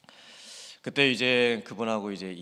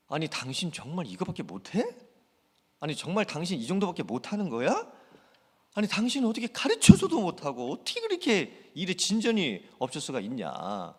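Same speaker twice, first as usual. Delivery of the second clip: exasperated boss; 8 semitones higher than usual. Retold or imitated. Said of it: "이런 말들도 참 조심해서".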